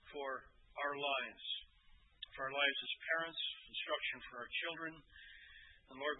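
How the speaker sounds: earnest pastoral prayer voice; closing prayer. Acted. Pastor prays over the young families, earnest. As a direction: pray over the congregation.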